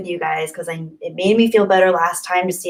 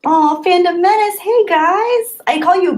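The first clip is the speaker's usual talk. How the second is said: excited greeting; 12 semitones higher, 5 dB louder than usual. Real, not acted. Greeting chat group excitedly.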